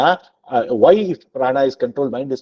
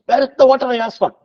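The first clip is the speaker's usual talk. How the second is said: higher, louder, fast retold shout; shouting yogi; 11 semitones higher, 5 dB louder, faster than usual. Storyteller voicing the waking yogi, shouting for his water. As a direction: blurt it out like a man just waking, demanding. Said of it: "he shouts".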